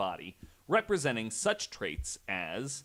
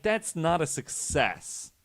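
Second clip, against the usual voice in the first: exasperated disbelief; 2 semitones higher, 5 dB louder than usual. Retold or imitated. Host scoffing at the priests' failed exorcism, exasperated disbelief. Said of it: "And I'm like".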